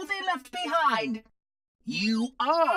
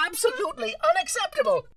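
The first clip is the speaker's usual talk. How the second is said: indignant fast outburst; 6 semitones higher, much faster than usual. Acted. Guilty Spark's third objection.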